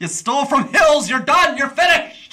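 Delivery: loud, high mock verdict; mock outrage. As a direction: pronounce him finished, hammed-up.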